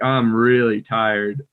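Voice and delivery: "I'm really tired" drawn out very slowly, rising on "really"; stretched, overdone take; overdone version. Shown as a demonstration. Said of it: "I would never be like".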